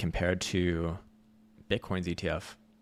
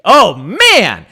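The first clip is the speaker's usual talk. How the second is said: much higher and louder hammed-up squeal; mock tech bro squeal; 11 semitones higher, 15 dB louder than usual. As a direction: shriek like an overexcited crypto bro. Mocking tech-bro hype.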